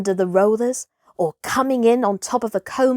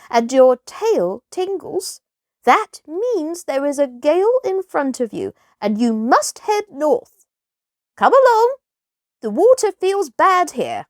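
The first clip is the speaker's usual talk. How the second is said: wise porpoise voice; 6 semitones higher than usual. Acted. Porpoise leader guiding young Kotick, high and unhurried.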